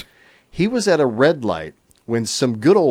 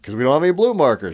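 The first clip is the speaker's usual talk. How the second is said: fast, higher, louder quip; dad's retort; 5 semitones higher, 4 dB louder, much faster than usual. Retold or imitated. Dad chiming in to defuse mom, fast quip. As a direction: rattle off the dad's comeback brightly. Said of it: "my dad chimes in".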